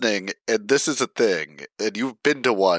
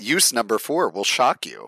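clickbait video narrator. Pretend. Clickbait parody.

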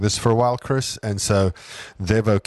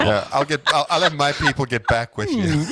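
laughing; 6 semitones higher than usual. Real, not acted. Laughing reply to joke.

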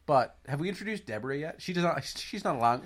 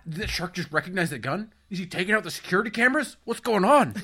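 ramp up into panicked questions; mock panic building; 4 semitones higher than usual. Voicing worried Samuel Jackson.

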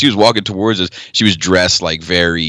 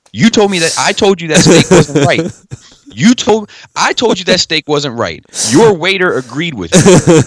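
indignant scolding; 6 semitones higher than usual. Retold or imitated. Retold scolding of the manager.

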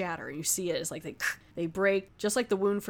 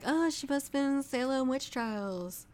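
mocking quote; 6 semitones higher, slower than usual. Mocking the characters' obvious conclusion.

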